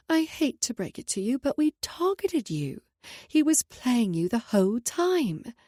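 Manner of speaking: twist the knife with smug slowness; taunting rival. A narrator's reading. Amelia taunts Sloan.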